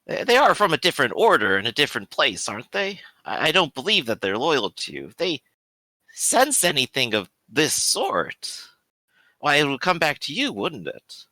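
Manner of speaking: lightly voiced priest pressing his doubts, lilting; a hint of a hesitant, probing cleric; questioning priest. Player voices Father Leon questioning the bishop.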